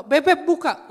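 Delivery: put-on high, loud shout to the child; wife calling out. Wife at the locked door, loud high call. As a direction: imitate her yelling at the door. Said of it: "lalu berkata begini".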